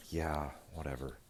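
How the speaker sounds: unvoiced, low mock whisper. Mueller shrugging off the Republicans in a low whisper. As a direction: whisper it, barely bothered.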